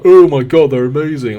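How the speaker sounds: exaggerated rave, high and loud on "Oh my God"; mock gushing. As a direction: gush as if overreacting. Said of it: "me to sort of be like".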